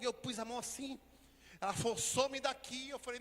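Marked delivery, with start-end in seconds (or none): 2.0-2.9 loud, high order to get out; angry command. Retold or imitated. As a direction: drive the boy out. Healer chases child away.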